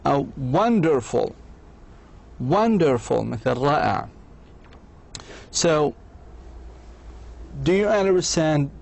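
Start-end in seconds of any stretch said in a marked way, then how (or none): 0.5-3.2 "wonderful" in measured beats, won-der-ful; three syllables. Shown as a demonstration. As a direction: mark each syllable of "wonderful". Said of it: "تتكون من ثلاثة مقاطع".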